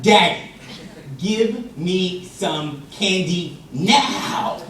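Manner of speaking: loud DADDY, then a very slow, insistent order; bossy toddler laying down the law; demanding. Retold or imitated. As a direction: command it, no longer asking. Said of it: "Let me try this again".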